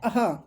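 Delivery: "अह" ending in a puff of h; visarga. Shown as a demonstration. Teacher showing the second ayogvah sound, "अह" with final h. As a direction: let "अह" finish on an audible h. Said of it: "दूसरा होता है".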